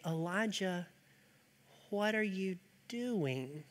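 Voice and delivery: very soft, slow, gentle whisper of God; peaceful whisper. Acted. Preacher voicing God softly calling Elijah, a gentle whisper. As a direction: hush it down to a peaceful near-whisper. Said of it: "God came to him in a low whisper, a peaceful whisper".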